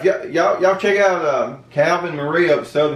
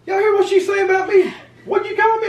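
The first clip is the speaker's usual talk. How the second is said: mock indignation. Real, not acted. Teased husband protests to viewers.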